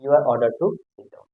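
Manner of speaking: very slow, word by word; slow dictation. Shown as a demonstration. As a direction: spell it out slowly for students. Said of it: "ऐसे बनाएंगे".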